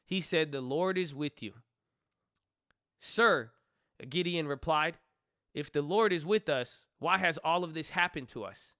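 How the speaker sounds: reading Judges aloud to viewers, in a measured reading voice; scripture reading. Acted. Reading the Bible story aloud to viewers in a steady voice.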